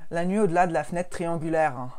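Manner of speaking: mock stressed Parisian accent with little nasal "en" endings; lightly hurried Parisian podcaster accent. Shown as a demonstration. Parisian podcaster mocks her own stressed Parisian accent. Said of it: "un accent parisien stressé".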